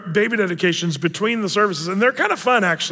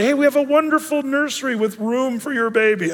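cheery announcement; 6 semitones higher than usual. Retold or imitated. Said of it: "I used to be able to say".

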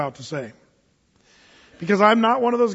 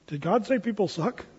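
softer, laughing through the mock question; mock kid asking through a laugh; giggling kids; 6 dB quieter than usual. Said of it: "the kids are going".

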